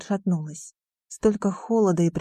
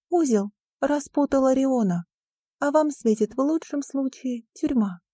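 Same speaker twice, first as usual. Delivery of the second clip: higher, firm woman's voice; a lightly voiced stern headmistress; 6 semitones higher than usual. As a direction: put the boy in his place. Donna continues.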